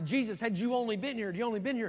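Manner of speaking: fast, reproachful, accusatory tone. The speaker retells Mary and Martha's words to Jesus, retelling an accusatory tone. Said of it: "you kind of hear the accusatory tone".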